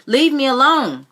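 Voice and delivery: put-on boy screaming while fighting his aunt; screamed at top of voice. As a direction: scream it with all your strength. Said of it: "I screamed at the top of my voice".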